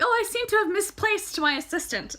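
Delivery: high, loud pompous mimic; imitating Chandresh. Reader imitating Chandresh's grand remark, high and loud. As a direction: ham up his lofty tone. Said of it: "he's like".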